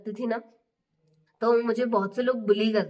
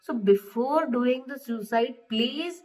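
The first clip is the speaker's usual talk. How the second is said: earnest plea; 3 semitones higher, slower than usual. Real, not acted. Vlogger begs viewers to share troubles, slow and earnest. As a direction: beg the viewers sincerely to speak up.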